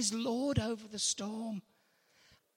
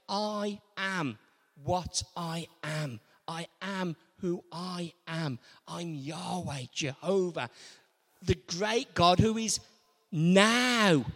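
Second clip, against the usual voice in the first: solemn voice of God; 5 semitones lower than usual. Retold or imitated. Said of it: "And God said".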